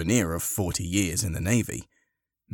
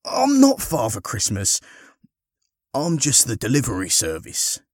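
protesting; 4 semitones higher than usual. Acted. Harry explaining himself to the woman, protesting. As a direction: correct her mistake in protest. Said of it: "protested Harry".

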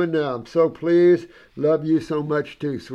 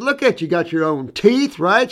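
much higher, marvelling; higher voice full of wonder; amazed exclaim; 3 semitones higher, 5 dB louder than usual. Retold or imitated. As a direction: gush over how young she looks. Marvelling at old woman.

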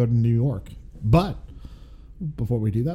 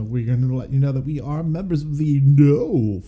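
announcer voice; 2 semitones higher than usual. Acted. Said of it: "it's not required to say it like that".

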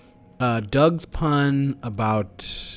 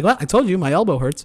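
raised, defensive imitation of an excuse-maker; mock I-told-you-so; 6 semitones higher, 5 dB louder, faster than usual. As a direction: play the sore loser with an alibi. Acting out a loser's ready excuse.

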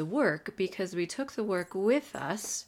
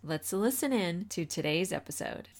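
upbeat announcer read; bright show-opening voice; podcast intro. Acted. Podcast intro read over music.

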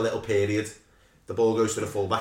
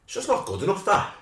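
pundit shout; 7 semitones higher than usual. Retold or imitated. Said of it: "I'll hit it with a".

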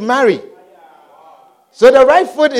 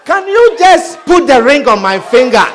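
laughing plea; 3 semitones higher, 5 dB louder than usual. Retold or imitated. Impatient partner wanting marriage.

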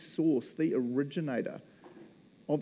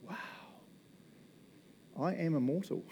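quiet wonder; 2 semitones higher, 7 dB quieter than usual. Shown as a demonstration. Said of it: "just kinda go".

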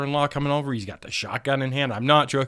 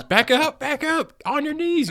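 mock cop command; 6 dB louder, slower than usual. Cops commanding teen.

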